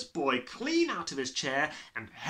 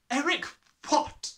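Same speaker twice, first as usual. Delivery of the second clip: sharp, higher question; demanding headmistress; 13 semitones higher, 5 dB louder than usual. Acted. Headmistress questioning the boy.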